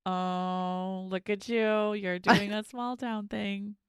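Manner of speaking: slow, drawn-out teasing remark. Retold or imitated. Watcher to small-town driver doing a U-ey, teasing. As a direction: stretch it out in mock admiration.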